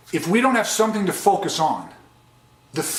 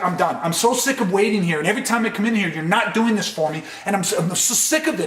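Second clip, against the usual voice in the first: fed-up patient. Shown as a demonstration. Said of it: "To where it's like".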